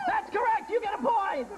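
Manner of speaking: high, hammed-up game show cheer; mock triumph. Host rewards contestant's hometown answer, high mock excitement. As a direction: award the point in an excited high voice.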